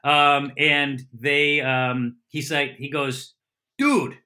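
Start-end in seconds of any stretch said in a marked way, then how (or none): 3.8-4.2 put-on high, exclaimed Boston-accented "dude"; imitating a buddy, slipping into Boston. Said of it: "that was more of a Boston accent".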